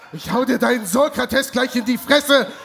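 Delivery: angry outburst. Acted. Kommissar tobt wütend.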